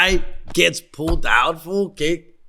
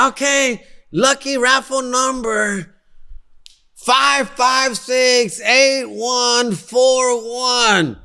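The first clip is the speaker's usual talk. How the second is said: announcer voice; 7 semitones higher, much slower than usual. Retold or imitated. Raffle host calls the number.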